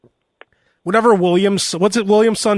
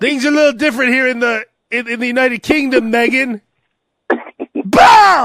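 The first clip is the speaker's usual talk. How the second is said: dark lord; 4 semitones higher than usual. Pretend. Royal lecturing Meghan.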